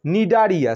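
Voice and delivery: নিডারিয়া begun straight on the n, its written C left silent. Shown as a demonstration. Teacher showing the second phylum's name, নিডারিয়া with silent C. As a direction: say নিডারিয়া as ni-da-ri-a, no C sound. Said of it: "সি এর উচ্চারণ হবে না".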